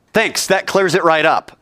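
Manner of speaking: dry sarcastic thanks, then a sharp high no; sarcasm, snapping up high at the end. Pretend.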